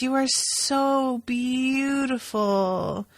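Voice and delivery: mock drunk, slow and slurred; sway through it like a happy drunk; hammed-up tipsy flattery, slowly drawn out; drunken Doctor. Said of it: "sort of staggering".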